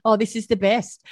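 high-pitched amused quote of oneself; laughing delight. Retold or imitated. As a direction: retell it as if laughing through sadness. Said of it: "laughing, going".

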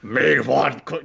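slow, gruff Cookie Monster voice; too aggressive Cookie Monster growl. Pretend. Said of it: "that's too, like, too aggressive".

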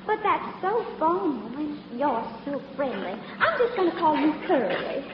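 flirty fake Southern belle accent; southern belle act. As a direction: coo at him like a Southern belle. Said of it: "my little old southern routine".

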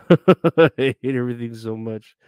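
loud, exasperated laugh spilling into words; laughing exasperation. Real, not acted. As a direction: burst out laughing into the complaint. Laughs through his exasperated complaint.

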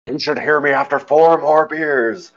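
slow, hammed-up presidential parody; Nixon. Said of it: "doing an impression of Futurama, doing an impression of Nixon".

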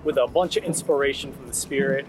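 recorded in a parked car; small car cabin sound; from inside a car. Real, not acted. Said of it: "I'm in my car right now".

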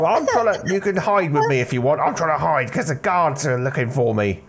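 put-on a jittery teen hiding in a warehouse; nervous teenage lad. Jimmy hiding from guards.

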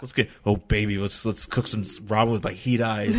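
low, hammed-up come-on; mock seduction.

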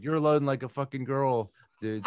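mock yell as the boss berating you; retold supervisor yell. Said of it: "yelling back to me".

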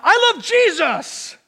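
high, loud and slow cry of praise; mock scream. Preacher showing the praise shout he struggles to let out, high, loud, slow. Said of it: "when I wanted to scream out".

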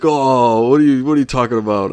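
failed attempt at a Long Island character; quick, lightly put-on impression voice; Gabrus. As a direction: try a rough impression, not quite landing it. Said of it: "I'm trying to do my Gabrus impression".

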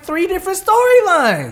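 slow, high exasperated complaint. Retold or imitated. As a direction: drag it out high in disbelief. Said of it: "I'm like".

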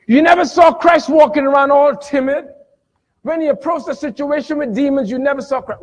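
high, driving sermon voice; emphatic pulpit delivery; animated preaching. Real, not acted. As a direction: drive the point home to the congregation. Preaches at full force.

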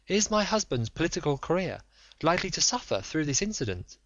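high, urgent, imploring lady; a proud wife begging for the truth; pleading noblewoman. Acted. Lady asks Holmes.

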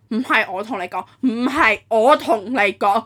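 insistent repeat, hitting it harder the second time; imitated defensive tone. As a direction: mimic the agent's emphatic denial. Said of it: "Literally in this tone".

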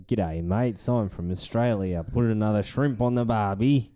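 lightly mocking movie-Australian accent; American Aussie accent. Host demonstrates how films do Australians, mock American Aussie accent. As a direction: do a corny Hollywood Aussie accent. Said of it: "What, the American Aussie accent?".

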